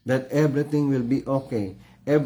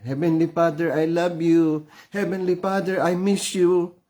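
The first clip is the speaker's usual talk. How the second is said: put-on childlike prayer; 4 semitones higher than usual. Shown as a demonstration. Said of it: "That kind of word we need to give".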